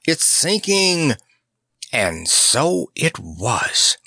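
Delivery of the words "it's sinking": higher, slow panicked wail; terrified shriek. Acted. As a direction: cry out the alarm in terror. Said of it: "he shrieked in real terror".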